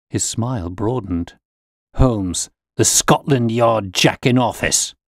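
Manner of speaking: put-on a bullying old man sneering; scornful insults. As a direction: lean on each insult harder.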